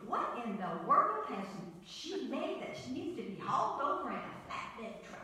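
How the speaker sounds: put-on Southern accent. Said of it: "she's Southern, so she would say it like this".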